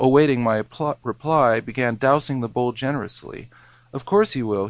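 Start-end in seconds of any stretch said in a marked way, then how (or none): 3.9-4.7 simpering. Retold or imitated. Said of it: "he simpered with authority".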